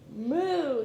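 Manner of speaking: a playful cow's moo. Acted. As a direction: moo it out like a cow. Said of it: "said the cow".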